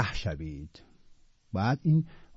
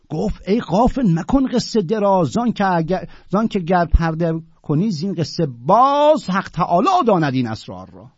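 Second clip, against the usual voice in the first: raised, rhythmic recital of classical verse; poem recitation; 6 semitones higher, 5 dB louder than usual. Acted. Teacher reciting the Sufi's verse reply to his class, rhythmic recital. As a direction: declaim each couplet with a lingering fall.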